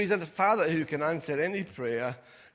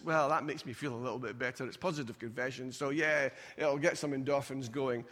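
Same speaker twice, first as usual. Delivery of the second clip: quick, low, softer mumble of a doubter; doubting churchgoer; 4 semitones lower, 3 dB quieter than usual. Retold or imitated. Mocking a lukewarm believer, muttered low and fast. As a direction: shrug it off like a half-convinced believer.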